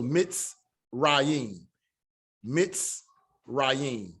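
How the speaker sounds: mitz, then a pause, then rayim; syllable by syllable. Shown as a demonstration. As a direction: split the word into mitz and rayim with a clear break. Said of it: "This is a closed syllable now".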